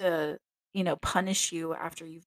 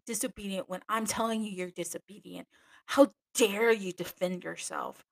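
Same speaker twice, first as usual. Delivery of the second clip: indignant outrage. Retold or imitated. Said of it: "so she's pissed".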